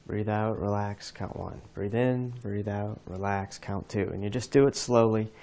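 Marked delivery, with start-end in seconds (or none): 0.1-4.1 soft, fading breathe-in breathe-out cues; calm relaxation count; guided breathing demo. Shown as a demonstration. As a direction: count it out calmly, dropping softer. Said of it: "So here it goes".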